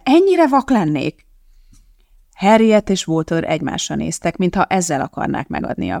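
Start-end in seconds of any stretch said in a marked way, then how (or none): 0.0-1.2 high, slow disbelieving question; slow, high self-reproach; stunned question. Acted. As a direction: ask it as if you can't believe it. Elizabeth asks herself in shock.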